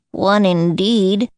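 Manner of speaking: very slow, mildly indignant. Acted. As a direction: drag it out with mild offence. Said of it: "said the Dormouse indignantly".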